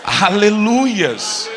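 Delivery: loud, high, long-drawn cry of praise; exultant shout. Real, not acted. Preacher praising before the congregation, exultant shout. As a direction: stretch it out in a big preacher's shout.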